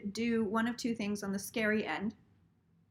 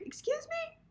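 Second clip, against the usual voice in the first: much higher, startled disbelief; stunned "excuse me"; 8 dB quieter than usual. Retold or imitated. Reacting to the banker calling her, shocked. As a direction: squeak it out in shock.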